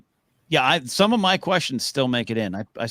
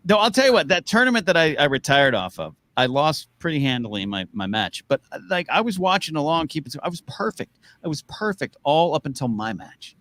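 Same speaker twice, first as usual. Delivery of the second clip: excited rant; 5 semitones higher than usual. Real, not acted. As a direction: rant about losing, fired up. Excited rant about tournament.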